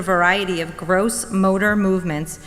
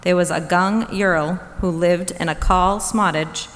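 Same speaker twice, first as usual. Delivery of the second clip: spoonerized fairy tale opening, read slowly; jumbled syllables. Shown as a demonstration. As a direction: swap the first sounds of the words. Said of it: "Extended spoonerisms".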